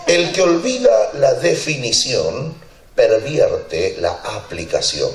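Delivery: slow, weighty saying that falls at the end; solemn maxim. Shown as a demonstration. Pastor quoting his motto, slow and solemn. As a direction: deliver the motto slowly, letting it land. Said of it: "dice así".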